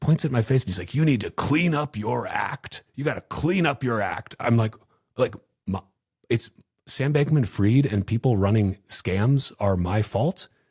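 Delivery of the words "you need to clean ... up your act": play-acted angry, scolding, lecturing, raised voice. Retelling how a man pointed at the speaker's face, imitating his raised voice. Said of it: "starts raising his voice".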